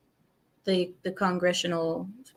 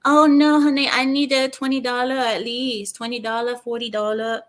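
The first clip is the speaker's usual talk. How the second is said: mock pushy worker; 3 semitones higher than usual. Mimicking the masseuse demanding twenty dollars, mock outrage. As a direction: play the worker demanding a bigger tip. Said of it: "They're like".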